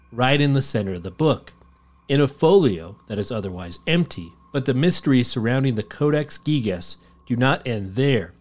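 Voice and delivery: measured documentary-style narration; story narration. A narrator's reading. Host reading the Codex Gigas legend, narrating. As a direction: read it like a legend being told. Reads a scripted legend account.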